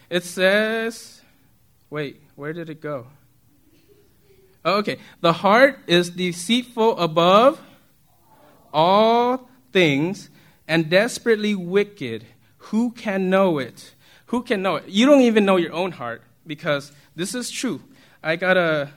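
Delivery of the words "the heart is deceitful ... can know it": slow, deliberate Bible reading; measured, drawn-out reading aloud; scripture reading. Acted. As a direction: read the verse out slowly with weighty pauses. Reads Bible verse aloud.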